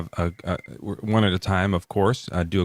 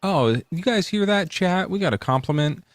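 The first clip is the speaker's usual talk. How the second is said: excited; 10 semitones higher than usual. Real, not acted. Excited call to the chat.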